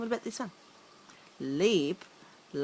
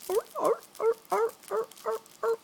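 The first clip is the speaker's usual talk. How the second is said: high, louder mock seal barking; seal barks; 13 semitones higher, 4 dB louder, much faster than usual. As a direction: bark like a seal to make him laugh. Seal noise for toddler.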